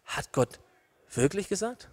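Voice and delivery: soft, questioning lift at the end; sowing doubt. Acted. Devil sowing the first doubt, softly questioning. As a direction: quietly plant a doubt. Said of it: "Er sät den ersten Zweifel".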